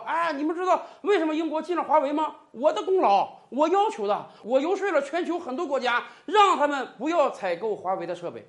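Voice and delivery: mock smug Trump brag, quick and pleased with himself; smug boasting. Trump boasting that Britain dropped Huawei, mock smug brag. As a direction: gloat with a laugh, imitating the president. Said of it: "沾沾自喜地说".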